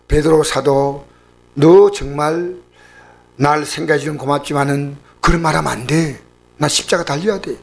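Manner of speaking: imagined mild reply; mock gentle reproof. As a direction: let him down kindly, unhurried. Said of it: "이렇게 부드럽게 나온 게 아니고".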